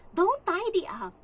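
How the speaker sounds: put-on slow, firm order from the child, not yet a scream; mock a stern little boy's warning; loud, slow, bossy child's command. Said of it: "Sabi niya sa akin".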